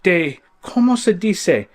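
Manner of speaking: high, hammy fake Spanish host voice; fake foreign accent. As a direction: put on a cheesy Spanish accent. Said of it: "we Americans with fake French, Italian, whatever accent this is".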